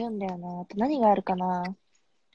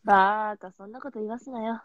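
cool guy voice. Pretend. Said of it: "かっこいい".

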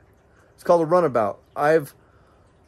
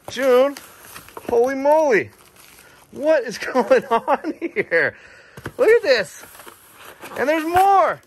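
excited; 9 semitones higher, slower than usual. Real, not acted. Amazed thanks to June as more gifts appear. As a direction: call out in delighted amazement.

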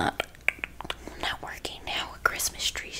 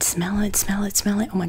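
louder voiced smell it, stress on it; eager voiced plea; 4 semitones higher, 5 dB louder than usual. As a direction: say smell it out loud. Repeating smell it to viewers.

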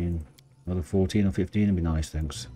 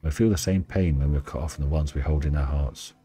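story narration. Acted. Reads and voices the Dryad.

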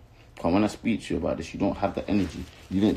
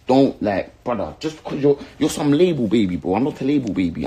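loud, higher, heated jab; worked-up and raised voice; angry put-down; 4 semitones higher, 4 dB louder than usual. Real, not acted. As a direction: throw the insult at a rival with real anger. Angry rant at rival artist.

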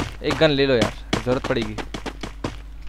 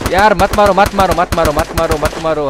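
urgent pleading. Real, not acted. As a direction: beg them to stop shooting. Begging players not to shoot him.

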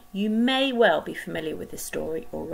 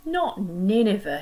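groaning; 2 semitones higher, 4 dB louder than usual. Acted. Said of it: "he groaned".

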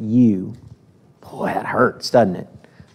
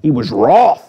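wroth said a bit louder and lingered on; savoring the word; 3 dB louder than usual. Shown as a demonstration. Preacher relishing the KJV word "wroth", a little louder and weighted. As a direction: give "wroth" weight so it sounds angry. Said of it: "That word just sounds angry".

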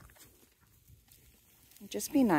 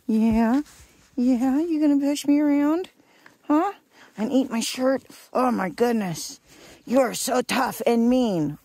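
louder, higher mock-scolding of a pushy pet; playful teasing; 3 semitones higher, 5 dB louder than usual. Real, not acted. Owner teasing a goat that pushes her, louder playful mock scold. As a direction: tease her like she's a tiny tough guy.

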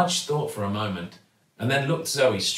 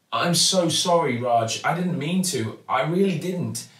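anxious apology; 6 semitones higher than usual. Acted. Girl apologising earnestly.

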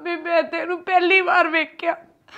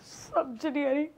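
broken whisper; 4 semitones lower, 18 dB quieter than usual. Acted. Daughter left alone weeping.

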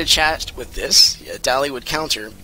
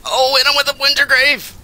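excited outcry; 12 semitones higher, 6 dB louder than usual. Pretend. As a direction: cry it out high and loud. Excited call-out during gameplay.

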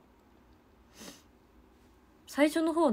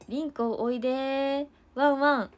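teasing call; 4 semitones higher than usual. Retold or imitated. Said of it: "誰かが言ったんですよ".

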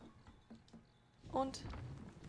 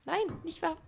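louder, higher cry of dismay; loud exclamation; 8 semitones higher, 7 dB louder than usual. Real, not acted. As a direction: shout out in dismay. Ausruf beim Spielen. (lauter, hoher Ausruf)

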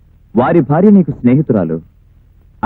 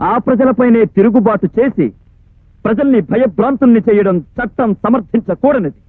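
measured legal oratory with pauses between phrases; formal courtroom address; 4 semitones higher than usual. Acted. Prosecutor demanding punishment from the court, formal oratory. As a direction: deliver a formal closing plea to the court.

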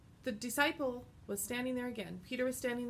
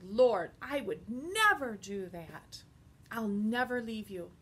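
loud earnest protest, "Lord" near a shout; Peter protesting; 6 dB louder, slower than usual. Acted. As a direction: plead it loud and firm.

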